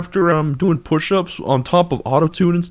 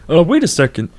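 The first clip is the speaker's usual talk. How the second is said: Kermit voice. Acted. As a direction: back in the Kermit voice. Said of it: "our regularly scheduled Kermit voice".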